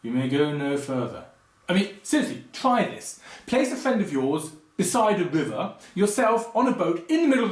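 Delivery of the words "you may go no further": calmly. Retold or imitated. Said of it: "he calmly says".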